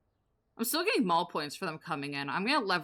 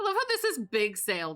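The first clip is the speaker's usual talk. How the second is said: amused delight; 5 semitones higher, 7 dB louder than usual. Real, not acted. Amused at game sale sign.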